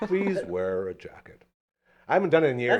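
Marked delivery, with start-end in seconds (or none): 0.0-1.4 slow, sad put-on narrator voice, lower pitched. Showing the others an old radio impression, sad Morgan Freeman voice. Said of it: "sad Morgan Freeman".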